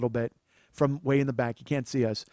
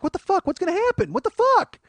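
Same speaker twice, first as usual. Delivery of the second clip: high panicked yelps; 6 dB louder than usual. Retold or imitated. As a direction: freak out in a high squeal. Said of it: "now we're like".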